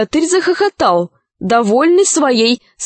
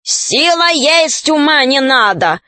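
shouting; 2 semitones higher than usual. Acted. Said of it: "кричала оттуда".

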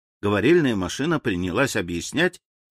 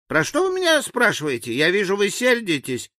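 high-pitched pleading figure; meek, bewildered native; 10 semitones higher than usual. A narrator's reading. Frightened native begs for clear orders, meek and high. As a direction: plead meekly in a much higher voice. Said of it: "тихо молвил он и покорно".

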